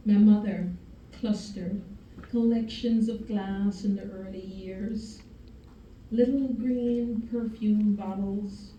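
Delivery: measured spoken-word delivery with long pauses; solemn poetry reading, lingering on each image; poem recitation. Acted.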